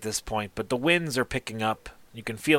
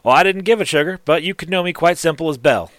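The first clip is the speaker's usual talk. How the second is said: higher, louder teasing female gnome; sassy gnome smith; 6 semitones higher, 6 dB louder than usual. Acted. Gnome smith teasing Boomer about her name, higher and louder. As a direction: tease him coyly with a raised voice.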